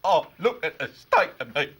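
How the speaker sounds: hammed-up soap emoting; mock EastEnders acting. Presenter mocking EastEnders clip, overacted upset voice. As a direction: lightly imitate overwrought soap drama. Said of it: "I love EastEnders acting".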